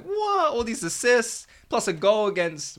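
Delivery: high-pitched mock astonishment; retold amazement. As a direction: act out being amazed, voice shooting up. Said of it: "I was like".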